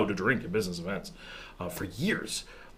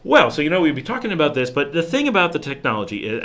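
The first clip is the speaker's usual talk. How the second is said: energized; 4 semitones higher, 6 dB louder than usual. Retold or imitated. Suddenly energized on camera.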